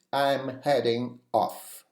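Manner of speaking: "I'm heading off" said slowly, "I'm" stressed; slow, clear demo. Shown as a demonstration. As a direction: spell it out slowly for learners. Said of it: "You can also say".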